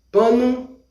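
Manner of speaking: teacher model of "Pano". Shown as a demonstration. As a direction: clear Portuguese "Pano". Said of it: "Vamos repetir".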